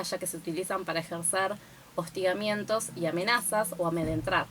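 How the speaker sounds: talking around a candy; words slurred by candy in mouth; sucking a hard candy. Real, not acted. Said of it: "Tengo un caramelo en la boca".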